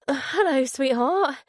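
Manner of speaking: put-on trying to sound light for a child; attempted lightness. A narrator's reading. Father greets his daughter by phone, forcing a little lightness. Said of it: "tried to inject a little lightness".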